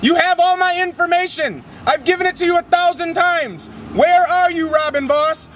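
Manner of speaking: real frustrated public challenge; calling out. Real, not acted. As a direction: call out to someone avoiding you. Protester calling out to legislator.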